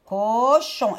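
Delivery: "Cochon" with a held "co", then "chon"; syllable-by-syllable "Cochon"; split into syllables. Shown as a demonstration. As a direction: hold "co", then add "chon". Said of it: "Je vais juste dire les mots".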